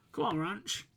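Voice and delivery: high excited egging on; excited cheer. Real, not acted. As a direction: cheer him on as the shot goes in. Cheering a player on.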